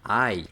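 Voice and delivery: "Ei" said like ai; pronunciación alemana. Shown as a demonstration. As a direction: draw "Ei" out slowly as ai. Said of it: "huevo en alemán se dice". ("Ei" en alemán, como ai)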